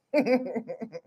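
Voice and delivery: soft chuckle. Real, not acted.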